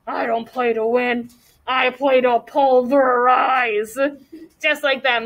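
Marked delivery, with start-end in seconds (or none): 0.1-4.0 lightly voiced tough action hero; a hint of a muscle-guy movie growl, slow on pulverize; gravelly growl. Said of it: "dropped his voice to a gravelly growl".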